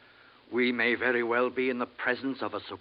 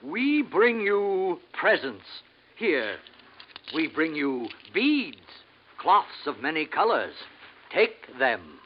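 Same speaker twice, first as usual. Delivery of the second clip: condescending slow offer. Acted. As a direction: spell it out slowly, like to a savage. Offering beads to a native.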